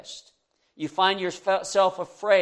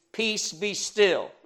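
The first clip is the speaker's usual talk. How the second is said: slow calm command; 4 semitones higher, slower than usual. Acted. Jesus commanding the sea.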